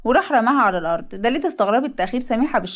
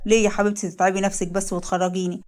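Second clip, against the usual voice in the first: lightly lowered, gentle husband voice; a loving husband, voiced a bit lower; husband Leil; 3 semitones lower than usual. Leil speaks to his wife.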